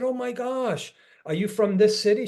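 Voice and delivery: retold delighted surprise; surprised. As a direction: sound amazed to find a fellow local. Retold surprise at meeting hometown stranger.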